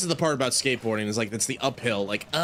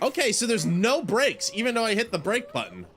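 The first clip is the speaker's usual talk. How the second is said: laughing; 8 semitones higher than usual. Real, not acted. Laughing at the brakeless ride.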